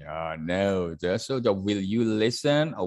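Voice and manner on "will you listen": polite request. Shown as a demonstration. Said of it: "That is a very polite request".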